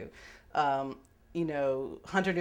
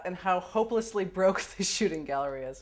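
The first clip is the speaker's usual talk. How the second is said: laughing quote; 4 semitones higher, 3 dB louder than usual. Retold or imitated. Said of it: "she quotes letter, laughing".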